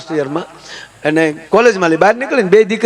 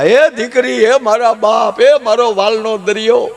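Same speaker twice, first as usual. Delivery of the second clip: mock wailing; 5 semitones higher, slower than usual. Family wailing at daughter's farewell.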